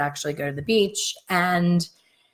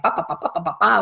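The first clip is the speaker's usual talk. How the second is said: raspy babble; much faster than usual. Retold or imitated. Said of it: "with this raspy ass voice".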